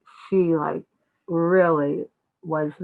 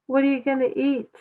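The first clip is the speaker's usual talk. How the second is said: higher father's question; lightly voiced father; 7 semitones higher, faster than usual. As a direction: ask it like an amused father, pitched up. Nanda asks again.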